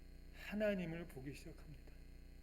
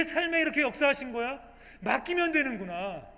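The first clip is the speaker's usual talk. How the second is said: amazed believer; 10 semitones higher, 11 dB louder than usual. Acted. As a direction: voice lifted high in wonder, then settling. Believer marvels at God's work. (놀라워하며 높아진 목소리)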